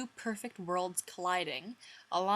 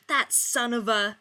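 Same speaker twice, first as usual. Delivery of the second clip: grumble; 5 semitones higher, 8 dB louder than usual. Acted. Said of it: "Ross grumbled".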